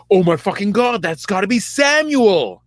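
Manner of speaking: high, hammed-up excitement; mock excited Saul. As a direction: gush it out in a high put-on voice. Saul voiced, excited recognition.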